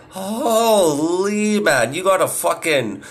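stunned disbelief, drawn out; shocked. Retold or imitated. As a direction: caught off guard, sputtering. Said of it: "I was like".

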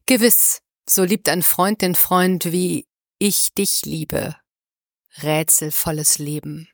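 measured poem reading with pauses; poem recital. Acted. Podcast host reads a poem's opening lines to listeners, measured recital. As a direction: recite the verse slowly, letting the ends sink.

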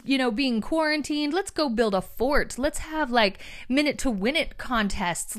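bright, upbeat pep talk; upbeat and positive. Retold or imitated. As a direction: cheer everyone up, lively and eager. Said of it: "the person who's like".

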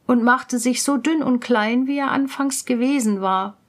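ordinary delivery, nothing marked

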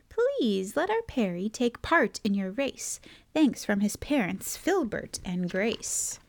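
measured rhyming read-aloud; picture-book narration. A narrator's reading. Reader introduces a penguin and his note, story narration. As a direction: tell it in an even storybook lilt.

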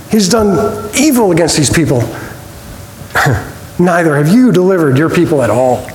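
a hint of a frustrated Moses questioning God, slowing and laughing mid-line; half-playful plea of a fed-up prophet; complaining Moses. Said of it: "See if this sounds like Moses".

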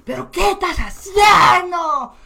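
high, slow, drawn-out shout; slow furious shout; yelling. Retold or imitated. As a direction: bellow it at the clumsy waiter. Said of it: "me empiezan a gritar".

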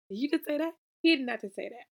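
high, loud disbelief; can't believe he said that; indignant and incredulous; outraged. Retold or imitated. Outraged reaction to the character.

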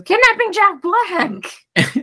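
slow, high, loud Kermit yell of the line; Kermit shout. Retold or imitated. Kermit answering Piggy, in a drawn-out high frog shout. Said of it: "And Kermit goes".

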